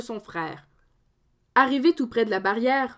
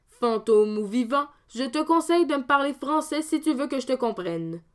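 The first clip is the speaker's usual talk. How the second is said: defiant Dominique; 2 semitones higher than usual. Acted. Dominique defies the ghost.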